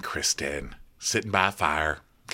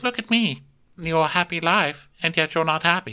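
mock Alicent; 8 semitones higher than usual. Alicent voiced by podcaster.

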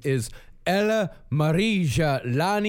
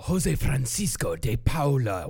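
put-on angry Spanish accent. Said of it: "is your Spanish accent always that angry".

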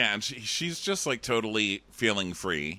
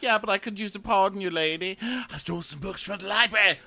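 much higher, fast, giggly nerd; giddy Sam voice; 12 semitones higher, 6 dB louder than usual. Retold or imitated. Sam gushing to the queen about stolen books. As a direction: gush like a thrilled bookworm. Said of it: "he's like".

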